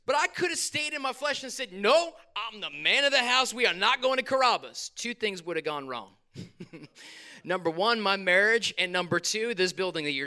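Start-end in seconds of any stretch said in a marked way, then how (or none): 1.7-4.9 hammed-up man of the house; mock stubborn refusal. Husband imagining refusing his wife the restaurant, mock-stern refusal. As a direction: put your foot down, playfully overdone.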